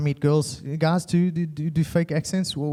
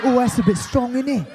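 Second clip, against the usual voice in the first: mock brother's exaggerated British accent; fake British accent; 5 semitones higher than usual. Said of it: "been in the U K for".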